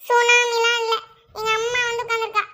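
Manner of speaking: sing-song crying complaint; hammed-up whimpering; mock tearful wail. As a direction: blubber it out, starting loud. Wife wails about her mother's arrival.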